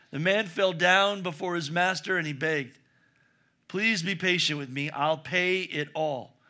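steady storytelling read of the parable; reading scripture in a storyteller's voice. Acted. Reads parable aloud.

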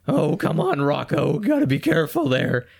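nerdy cartoon turtle voice; a nerdy worried cartoon turtle; nerd voice. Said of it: "the speaker's nerd voice".

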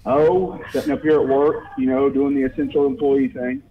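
caller on a phone line; thin call-in phone sound; over the phone. Real, not acted. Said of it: "we got another phone call".

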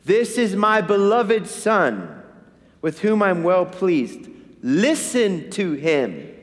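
God the Father's voice. Retold or imitated. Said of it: "what God the Father says".

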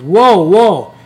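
loud, high imitated whoa; alarmed objection. Lady in the crowd objecting to the comic, mock alarmed shout. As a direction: call out like a startled onlooker.

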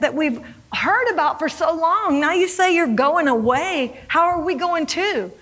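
bewildered questioning, imitating a confused follower; puzzled and pressing for an answer; baffled disciple. Acts Thomas's baffled questioning of Jesus.

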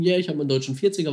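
a retold yell across the lake, only half voiced; hint of a jubilant shout; mock victory shout.

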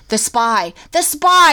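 urgent realization, building; Mike realizing. Retold or imitated. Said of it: "he's like".

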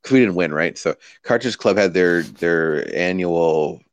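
grudging, dragged-out delivery; reluctant, like I hate it. Pretend. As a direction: say it like it pains you. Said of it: "I should deliver it like I hate it".

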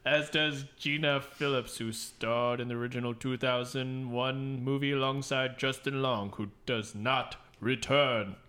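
lightly ominous newsreader, drawing out the last words; a touch of spooky narration; spooky news narrator. Pretend. Co-host resumes reading the cast news, lightly spooky narrator. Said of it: "like the guy who narrates spooky news".

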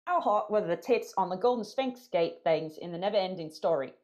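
a fuller mock Australian accent; Aussie accent. Cohost reads the listener question again in a full mock Australian accent. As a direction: commit to the bad Australian accent. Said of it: "Guys, that's awful".

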